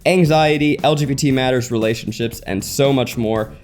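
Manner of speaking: smooth podcast host ad read; sponsor ad read. Acted. Host pitching online therapy to listeners, ad read. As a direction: read it as a friendly, practised sponsor message.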